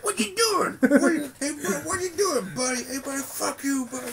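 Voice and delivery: high, brash New Jersey voice; Meryl Streep impression. Friend mocking Meryl Streep's New Jersey accent, high brash voice. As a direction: play a loud mock Jersey tough guy. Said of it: "That's my Meryl Streep impression".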